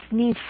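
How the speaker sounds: "sniffed" drawn to f then a separate t; "sniffed" with a detached final t. Shown as a demonstration. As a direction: say "sniffed" as snift, one syllable. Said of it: "también va a sonar como una T".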